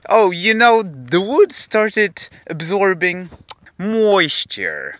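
high, slow posh-sounding English chat; mock a casual native speaker. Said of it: "w normalny sposób". (przesadnie swobodny angielski)

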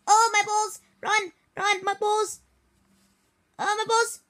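high hammed-up yelps of pain; mock pain. Kid hamming up pain after in-game hit. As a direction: yelp as if hit.

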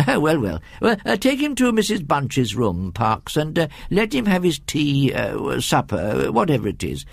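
lightly voiced dithering gentleman; a hint of absent-minded master to butler; distracted, fussy host. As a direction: hesitate over the orders, with stumbles. Voices Mister Abney in story.

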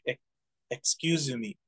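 English with Japanese-accented syllables. Shown as a demonstration. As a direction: excuse me in a Japanese accent, extra vowel before me. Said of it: "the Japanese accent, it's more like".

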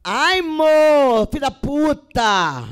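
very slow, loud drawn-out curse; mock angry curse. Shown as a demonstration. Showing the audience how love words can carry hatred, slow and loud. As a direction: stretch out the insult with venom. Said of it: "intenção é muito importante".

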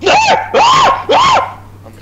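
high, loud squeal through laughter; laughing shout. Real, not acted. Friend howls at a gross video, laughing shout. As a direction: screech it while cracking up.

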